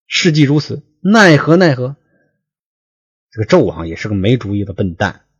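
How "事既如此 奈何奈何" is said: much higher, louder panicked wail; storyteller's king in mock alarm; 说书人模仿惊慌; alarmed cry. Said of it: "大惊曰".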